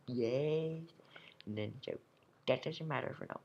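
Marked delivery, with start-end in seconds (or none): 0.1-0.8 imitating a kid brother's cheer, a bit louder; mock brother yell. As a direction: throw in your brother's cheer. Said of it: "that was my brother shouting".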